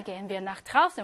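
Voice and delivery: careful slow dictation pace; slow German read-aloud. Shown as a demonstration. Teacher reading a listening sentence to students, very slow. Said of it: "발음 문제 한번 하겠습니다".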